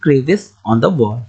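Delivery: crevice on the wall said very slowly; drawn-out model sentence; slow example sentence. Shown as a demonstration. Teacher giving a slow English example to students. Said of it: "आप क्या कहेंगे".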